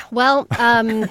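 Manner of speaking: big sigh before speaking; dramatic sigh. Real, not acted. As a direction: sigh heavily, then start. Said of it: "That was a big sigh".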